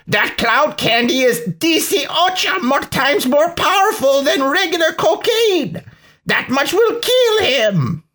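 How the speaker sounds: put-on very high, alarmed Hispanic-accented villain; thick Hispanic accent. A narrator's reading. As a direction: warn excitedly in an exaggerated Hispanic accent. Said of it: "in a thick Hispanic accent".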